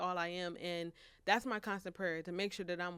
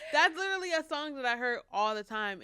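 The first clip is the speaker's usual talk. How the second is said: teary voice; 6 semitones higher, 7 dB louder than usual. Real, not acted. Remembering mom's song, in tears.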